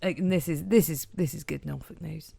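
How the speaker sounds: put-on broad Norfolk accent. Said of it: "the Norfolk Siobhan".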